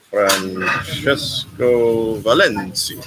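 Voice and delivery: Francesco Valencia said very slowly, syllable by syllable; careful name. Shown as a demonstration. Thanking a donor, carefully trying his name. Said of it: "Did I do it right?".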